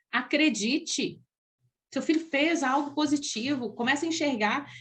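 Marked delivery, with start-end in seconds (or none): 0.1-1.2 slow urging. Shown as a demonstration. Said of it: "repeated urging".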